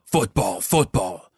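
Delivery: low American echo of the announcer; American accent. Pretend. Co-host echoes the sponsor name, mock American accent. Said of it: "in an American accent".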